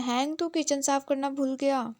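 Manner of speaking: mild mock yell of complaint; calling out across the flat, half-hearted; retold shout. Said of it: "चिल्लाता है". (हल्का सा चिल्लाकर शिकायत)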